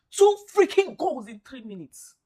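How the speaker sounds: loud outraged complaint; exasperated yell. Real, not acted. Fan shouting at his team over the collapse, loud and outraged. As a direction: blast the words out in disbelief.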